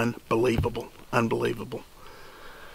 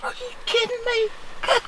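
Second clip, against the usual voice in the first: ecstatic shout. Real, not acted. Dad screaming with joy after his son's shot. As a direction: yell it out, overjoyed.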